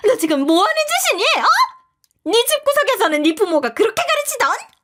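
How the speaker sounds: high, loud furious screech; shrieking mother-in-law. A narrator's reading. Future mother-in-law screaming at the narrator, high furious shriek. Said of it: "예비 시모의 절규가 시작되었죠".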